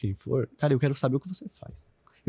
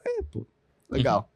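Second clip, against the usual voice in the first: imitating a disinterested listener's flat acknowledgement; bored reply; slower than usual. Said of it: "Aí você fala".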